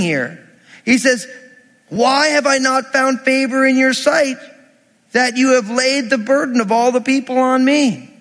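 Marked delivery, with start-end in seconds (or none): 1.9-8.1 higher, acted-out complaint to God; frustrated Moses. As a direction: lament it like a pity party, mildly hammed-up. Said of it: "He's frustrated".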